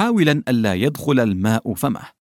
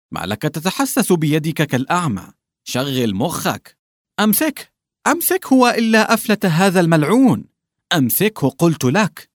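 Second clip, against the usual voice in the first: shouting, shivering; 6 semitones higher than usual. A narrator's reading. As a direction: bark orders while shivering in cold water. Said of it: "ويصيح لوبيم الأحدب وهو يرتعش". (صياح مرتجف بنبرة عالية)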